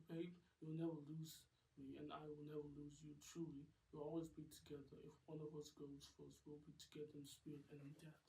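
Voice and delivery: lightly voiced tender boyfriend; a touch of a devoted lover's promise; Mad Dog, devoted. Boyfriend promising Rose forever, lightly voiced.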